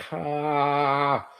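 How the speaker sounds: mock goblin jeer on one breath; taunting goblin noise. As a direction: taunt with a long, held "ha". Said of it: "like he's making a face at you".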